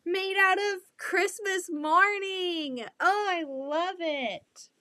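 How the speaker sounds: high, slow, delighted gush. Real, not acted. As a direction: swoon over the fabric, drawn out. Delighted opening a quilt gift.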